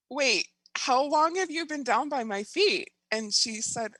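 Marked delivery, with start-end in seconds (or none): 0.1-2.9 high, louder retold astonishment; acted-out incredulous double take; startled disbelief. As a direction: question it in sudden bewilderment. Retold startled question to practitioner.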